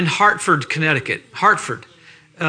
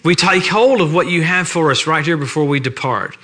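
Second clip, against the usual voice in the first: pastoral prayer; 3 semitones lower than usual. Acted. Preacher praying over the church on Sunday morning, reverent. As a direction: pray it unhurried, reverent and sincere.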